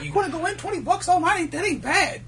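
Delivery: high voice through laughter; high laughing customer. Retold or imitated. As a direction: squeak it out laughing.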